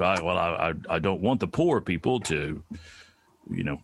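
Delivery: lightly voiced, halting old senator, mostly in own voice; a mild hint of a mumbling Southern senator; Mitch McConnell impression. Mock press conference clip of the senator, lightly imitated. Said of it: "That's a really good impression of him".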